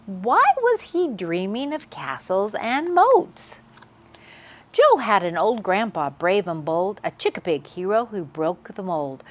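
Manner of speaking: gentle rhyming read-aloud; storytelling to kids. A narrator's reading. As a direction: read it like a bedtime book.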